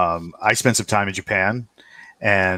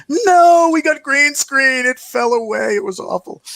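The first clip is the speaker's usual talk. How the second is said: much higher, slow Japanese accent, loud at first; high Japanese-accented complaint; 5 dB louder than usual. Shown as a demonstration. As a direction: mimic a Japanese speaker's English. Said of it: "there's my accents".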